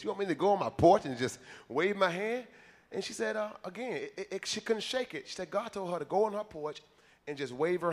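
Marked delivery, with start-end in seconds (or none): 0.0-2.5 mock disbelief, louder and rising at the end; incredulous question. Missionary questioning God's odd order, acted incredulity. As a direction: question it loudly, as if it makes no sense.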